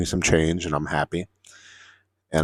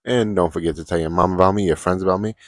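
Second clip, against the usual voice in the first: higher, louder, rising playful goodbye; cheerful sign-off; 4 semitones higher, 6 dB louder than usual. Real, not acted. To viewers, asking them to share, a cheerful sign-off. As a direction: wave the audience off with energy. Signing off the video.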